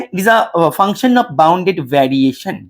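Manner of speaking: word by word for students to write; slow note-taking dictation. Shown as a demonstration. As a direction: dictate it slowly, spacing the words. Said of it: "note down कर लो".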